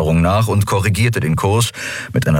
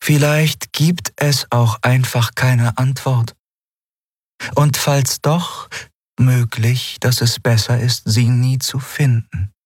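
higher, slow and solemn storyteller alien; slow solemn elder being; ancient alien voice; 7 semitones higher, slower than usual. A narrator's reading. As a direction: recall endless wonders, measured and grave. Shayang answers gently.

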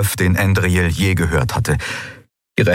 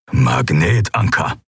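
slow, lower growled word; slow, lower grumbling growl; 3 semitones lower, slower than usual. Acted. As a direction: growl it out slowly. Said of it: "knurrte Keru".

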